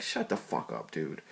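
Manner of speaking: low, soft retold aside; muttered annoyance. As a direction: drop low and grumble it, fed up. Retelling own annoyed reaction to Court.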